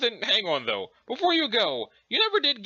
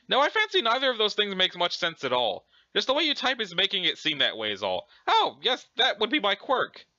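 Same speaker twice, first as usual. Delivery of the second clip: hammed-up British politeness; pretend British; 2 semitones higher than usual. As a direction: put on a prim British character voice. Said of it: "pretending to be British".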